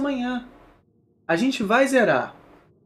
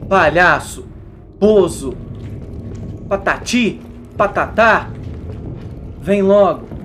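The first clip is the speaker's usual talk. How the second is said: loud mocking insults; taunting shout; 3 dB louder, slower than usual. Real, not acted. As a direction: jeer at the enemy. Taunting the game enemy. (provocação gritada)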